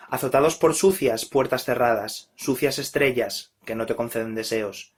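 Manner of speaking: declaimed verse in falling phrases; steady poem declamation, dropping away at the close; poetry recital. Acted. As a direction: recite it line by line, each phrase descending. Recites his own poem.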